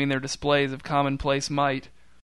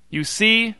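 high loud gotcha; triumphant shout; 8 semitones higher, 4 dB louder than usual. A narrator's reading. Newton exposing Ronnie to the crowd, triumphant shout. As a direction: crow it at the crowd. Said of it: "shouted Newton".

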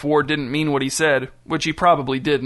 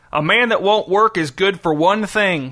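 shouted; 4 semitones higher than usual. A narrator's reading. Crazy old captor lecturing jobless prisoners: shouted sermon. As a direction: preach it at the prisoners. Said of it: "shouted Lincoln".

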